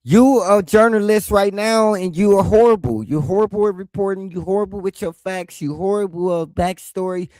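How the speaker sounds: playful roasting rant; mock rant. Real, not acted. Ranting insults at the host.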